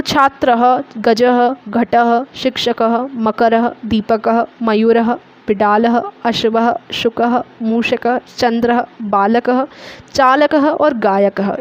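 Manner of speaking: each word ends in a light h echo, said one by one; visarga words recited. Shown as a demonstration. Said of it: "इस तरीके से हम इनको पढ़ेंगे".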